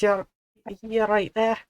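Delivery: high, slow Welsh character voice; Welsh accent. Acted. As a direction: drag it out in a high Welsh lilt. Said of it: "Here comes the character voice".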